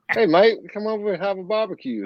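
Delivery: put-on a high, playful, clumsy Australian accent; bad Australian accent. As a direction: try on an Aussie accent and miss a bit. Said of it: "that's the close accent I get".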